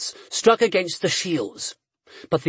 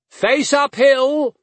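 high, loud, drawn-out command; ordering; 9 semitones higher, 5 dB louder, slower than usual. A narrator's reading. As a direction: roar the order uphill. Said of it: "the mounted man ordered".

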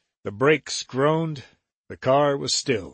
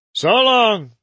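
much higher, louder farewell; high Jerry voice; 8 semitones higher, 7 dB louder than usual. Acted. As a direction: call it back pitched up.

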